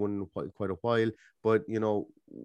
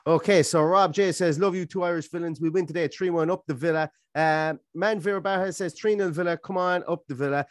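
raised, brisk auctioneer calling bids; 6 semitones higher than usual. Pretend. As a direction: rattle off each score like a lot at auction. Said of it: "for my auctioneer's, uh, impression".

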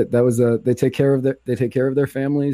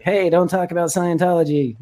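high, squeaky elf voice; christmas elf; 5 semitones higher than usual. Retold or imitated. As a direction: Tom Cruise as a tiny elf. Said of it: "talks like an elf".

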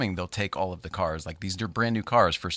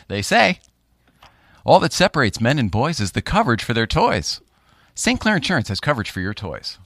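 ad read voice; 3 semitones higher, 7 dB louder than usual. Acted. Insurance ad slogan read.

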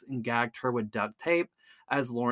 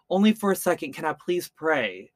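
mild imitated plea, starting louder; retold pleading; 4 semitones higher, 4 dB louder than usual. Victim asking captors to let her pray, mildly acted plea. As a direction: plead lightly, higher at the start.

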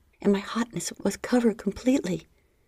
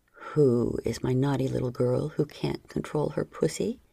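stern; 5 semitones lower than usual. Acted. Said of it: "he repeated more sternly".

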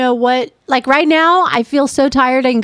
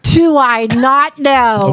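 sarcastic; much slower than usual. Real, not acted. Wife mocks his bed-flopping.

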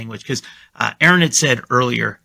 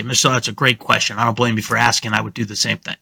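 reassuring sales pitch; 3 semitones lower, faster than usual. Shown as a demonstration. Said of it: "the tonality is very important here".

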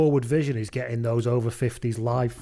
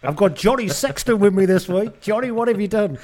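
put-on cheesy presenter accent, louder and higher; hammy TV host welcoming a guest; bad host accent; 7 semitones higher, 5 dB louder than usual. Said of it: "Each one of those accents is terrible".

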